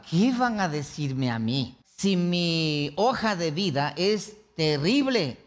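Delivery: slow, incredulous aside in character; slightly put-on, drawn-out musing; lightly voiced Barrabás. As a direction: play a touch of a doubting convict. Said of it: "qué crees que estaba haciendo Barrabás".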